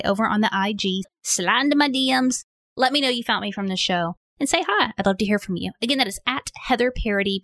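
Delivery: upbeat, chatty podcast plug; promo read. Real, not acted. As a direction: invite listeners to follow along. Host's scripted social media plug.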